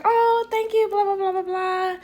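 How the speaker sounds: high, singsong gushing thanks; sugary high-pitched politeness; sweet thanks. Retold or imitated. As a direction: coo it high to a child. Re-enacts thanking a little girl.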